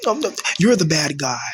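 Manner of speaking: high whimpering mock of a cry bully; mock whiny crybaby. Mocking cry bullies who play the victim, whiny and hushed. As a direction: imitate a fake-crying bully. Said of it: "They start crying and said".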